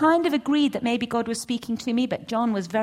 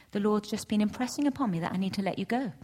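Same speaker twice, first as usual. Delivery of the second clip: whispered, softer confession; hushed whisper; 5 dB quieter, faster than usual. Retold or imitated. Pastor telling the couple to leave, hushed whisper. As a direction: break the bad news under your breath. Pastor breaking hard news gently.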